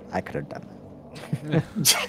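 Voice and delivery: very quiet whispered mutter under the breath. After writing down notes, the speaker voices their character's remark, muttered under breath. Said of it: "under my breath".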